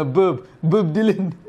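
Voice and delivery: put-on slow French-accented name, amused. Retelling Kevin Kline's line to Meg Ryan, French accent. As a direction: imitate a Frenchman through a laugh. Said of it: "in his French accent".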